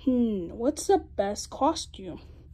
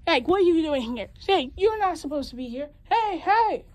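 shouting; 5 semitones higher, 6 dB louder than usual. Acted. Shouting at intruder.

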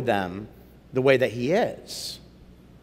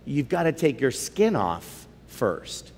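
lion; 3 semitones lower, 6 dB quieter, slower than usual. Acted. Lion speaks.

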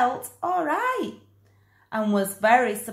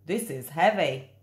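lower man's voice; 6 semitones lower than usual. Acted. Man lifting the sack.

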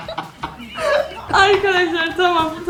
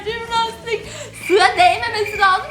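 laughing; 3 semitones higher than usual. Real, not acted. Watching funny cat video.

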